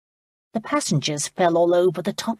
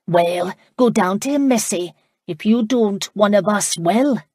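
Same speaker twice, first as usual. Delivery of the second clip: Irish brogue; 2 semitones higher, 4 dB louder than usual. Acted. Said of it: "One said in her brogue".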